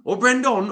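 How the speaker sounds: "Brendan" high and loud with a full final vowel; mock-wrong "Brendan", loud with an unreduced ending; exaggerated mispronunciation. Mock list of mispronounced name variants.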